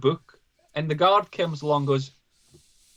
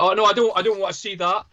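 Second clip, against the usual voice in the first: higher-pitched imitation of a reluctant guard; mock hasty refusal; 5 semitones higher, 4 dB louder than usual. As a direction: wave it away like an official dodging evidence.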